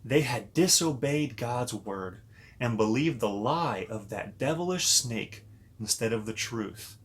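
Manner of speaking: put-on storybook narration for little kids; reading to children. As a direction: read it like a bedtime story to children. Reads Bible story to kids.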